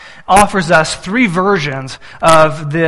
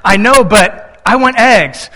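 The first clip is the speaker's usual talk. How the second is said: put-on whiny little boy; 4 semitones higher, 4 dB louder, slower than usual. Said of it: "He says".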